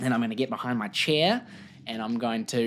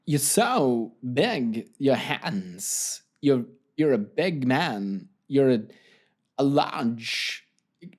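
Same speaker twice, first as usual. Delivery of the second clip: halting, slow-paced impression with odd pauses; a loose celebrity impression, broken up by long gaps; lightly voiced, slow and haltingly phrased affirmations; Christopher Walken; slower than usual. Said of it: "do them in the voice of Christopher Walken".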